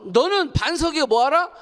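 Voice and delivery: high, rising commanding call; retold divine command. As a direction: proclaim it as an order from God. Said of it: "그랬어요". (명령하듯 높인 목소리)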